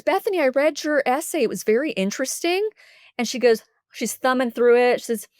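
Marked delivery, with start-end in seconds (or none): 0.0-2.7 higher-pitched, careful counselor voice; kindly counselor. Retold or imitated. Counselor to student about her essay, high tactful voice. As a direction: imitate a counselor gently opening a delicate subject.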